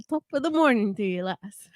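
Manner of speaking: attempted Irish greeting accent. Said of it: "going for your Irish accent again".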